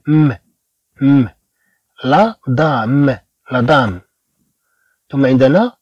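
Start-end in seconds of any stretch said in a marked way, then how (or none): 0.1-4.0 م as a closed-lip m, no vowel; bare final M. Shown as a demonstration. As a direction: let دام end on a plain hummed m. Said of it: "إذا هنا كأننا نقول م".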